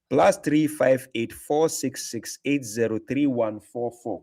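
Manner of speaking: slow, careful digit-by-digit repeat; slow dictation. Real, not acted. Host repeating his number slowly so the caller catches it. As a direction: spell the number out slowly so it can be written down.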